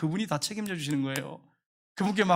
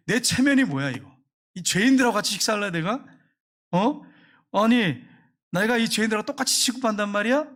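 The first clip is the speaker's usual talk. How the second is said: mock indignation; 3 semitones higher than usual. Selfish believer's indignant inner voice.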